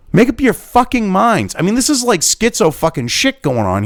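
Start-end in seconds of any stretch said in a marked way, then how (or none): 0.1-1.5 higher and slow, each word hammered; exasperated demand. Real, not acted. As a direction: spell it out in frustration. Exasperated outburst at officials.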